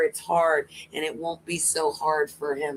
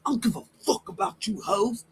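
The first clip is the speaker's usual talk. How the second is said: higher-pitched mock outburst; raised voice demo; 5 semitones higher than usual. Shown as a demonstration. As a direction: act out raising your voice at them. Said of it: "raise my voice and be like".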